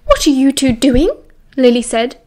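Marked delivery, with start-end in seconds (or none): 0.1-1.1 stern prefect demanding an answer; authoritative. A narrator's reading. Lily confronting the couple she caught, authoritative. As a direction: question them like a strict schoolteacher. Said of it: "immediately adopting her authoritative voice".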